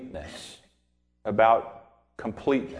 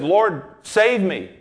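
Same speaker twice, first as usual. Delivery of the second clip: drowning man calling; 5 semitones higher, 4 dB louder, slower than usual. Retold or imitated. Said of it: "he said".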